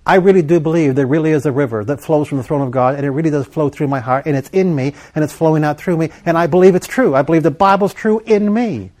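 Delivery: earnest declaration building in pitch; declaring faith. Acted. Preacher models stepping out in faith for listeners, building declaration. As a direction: build steadily into a firm affirmation.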